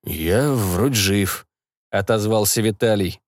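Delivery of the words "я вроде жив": slow, lower, trembling and breaking; shaky voice. Acted. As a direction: voice wavering from shock. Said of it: "Голос у него заметно подрагивал и срывался".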